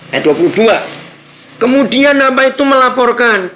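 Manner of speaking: loud, high preaching at full force; fiery preaching. Acted. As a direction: preach it out to the congregation. (berkhotbah dengan suara keras dan berapi-api)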